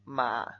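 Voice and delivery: "Ma" sinking low; third tone. Shown as a demonstration. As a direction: drop "Ma" to the bottom of the voice. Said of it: "El tercero recordamos que es". ("Ma" en tercer tono, grave)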